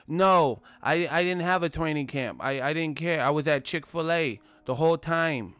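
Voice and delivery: lightly voiced high Tyson; Mike Tyson impression. Mimicking the champ's carefree reply. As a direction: answer casually, no shame at all.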